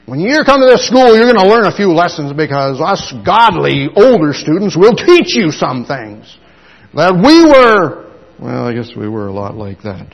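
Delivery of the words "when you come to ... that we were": smug senior student. Acted. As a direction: talk down to the newcomer with pride. Proud older student voiced.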